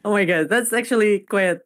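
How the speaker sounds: unvoiced hushed aside; whisper. Real, not acted. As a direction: whisper it so only the friend hears. Whispered reaction.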